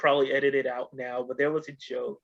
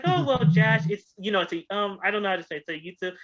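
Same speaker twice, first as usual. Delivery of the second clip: higher, hesitant woman's voice; higher Sarah Silverman voice; 5 semitones higher, faster than usual. Retold or imitated. Sarah Silverman fumbling to explain Jash to Norm, higher voice.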